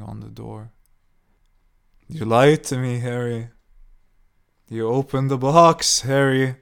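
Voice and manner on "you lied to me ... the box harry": loud screaming accusation. A narrator's reading. Old woman banging on Harry's door, screaming. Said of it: "she screamed".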